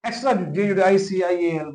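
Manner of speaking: एक्स्ट्रा then जे यू डी आई सी आई एल letter by letter; spelled out. Shown as a demonstration. Teacher spells extra judicial in a hurry, letter by letter. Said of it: "बस spelling आगे पीछे हो जाए".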